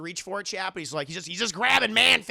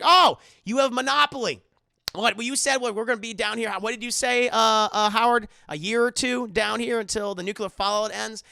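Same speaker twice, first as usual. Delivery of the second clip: higher-pitched eager chatter, loud at first; acted clueless enthusiasm; excited Emmett; 4 semitones higher, 5 dB louder than usual. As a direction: burst in delighted, then babble on. Acted chatterbox spots a game.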